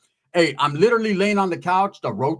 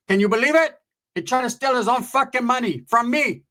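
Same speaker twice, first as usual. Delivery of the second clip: high-pitched mock indignation; outraged aunt; 7 semitones higher than usual. Aunt complaining about a stealing cousin, high indignant imitation. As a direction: play an aunt in disbelief. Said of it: "She was like".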